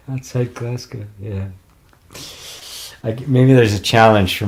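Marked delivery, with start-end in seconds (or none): 0.1-1.5 Scottish accent. Shown as a demonstration. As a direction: try a light Glasgow accent after laughing. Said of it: "can you do a Scottish one".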